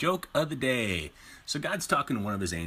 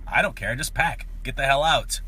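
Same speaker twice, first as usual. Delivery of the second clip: angry; 4 semitones higher, 5 dB louder than usual. Acted. Wife kicking husband out.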